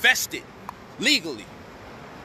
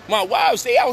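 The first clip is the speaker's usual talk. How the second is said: outburst; 6 dB louder than usual. Real, not acted. Venting about separation.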